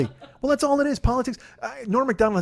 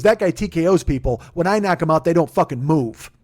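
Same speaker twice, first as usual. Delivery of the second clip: cocky boast; 6 dB louder than usual. Retold or imitated. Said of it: "He goes".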